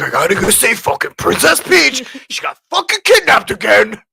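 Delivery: high, loud mock Italian accent. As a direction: shout it like an angry Italian Mario. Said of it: "But in an Italian accent".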